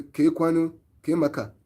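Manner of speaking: "Ke kwanu, ke maka" said as a native Igbo greeting. Shown as a demonstration. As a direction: greet in Igbo, easy and natural. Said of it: "in Igbo, I say".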